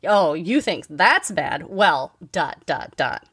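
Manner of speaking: slow, dismissive one-upping tone; one-upper quote. Retold or imitated. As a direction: mimic a know-it-all topping your complaint. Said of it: "they immediately say".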